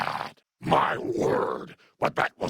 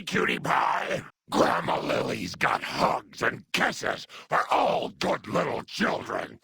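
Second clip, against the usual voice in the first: put-on high, gushing granny baby-talk; cooing grandma; 9 semitones higher than usual. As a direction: fuss over little darlings in a high coo. Grandma cooing over little children.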